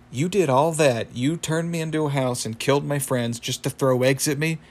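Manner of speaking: lightly acted indignant disbelief; mock incredulous. Rigby protests to the egg-throwing wizard, acted incredulous. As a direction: question it as if you can't believe the pettiness. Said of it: "And then Rigby's like".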